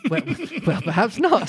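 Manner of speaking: breaking up on the line; laughing. Real, not acted. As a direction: try to read on through giggles. Breaks up after mouse voice.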